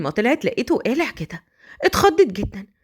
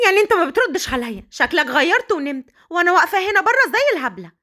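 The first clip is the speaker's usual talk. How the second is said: higher, mock annoyed calling; impatient wife; 3 semitones higher than usual. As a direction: raise it and huff through the door. Wife calls through the door. (صوت زوجة تنادي بنفاد صبر مصطنع)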